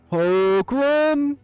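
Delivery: drawn-out bellow of a name, high and loud; roaring. Acted. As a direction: roar it from behind a closed door. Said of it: "flinching at the roaring of his name".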